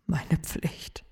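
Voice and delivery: whispered repeat of "Meine Pflicht", soft and breathy on "Meine". Acted.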